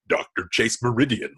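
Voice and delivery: lightly imitated throaty superhero voice; a comic-booky throaty disguise; Val Kilmer's Batman. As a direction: put on a throaty hero voice. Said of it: "And then he lowers it".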